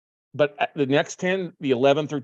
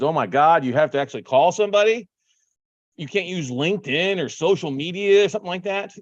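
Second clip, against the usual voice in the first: put-on incredulous complaint; mock dismay; 3 semitones higher than usual. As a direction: mimic someone aghast at phoning. Mimicking people who dread calling.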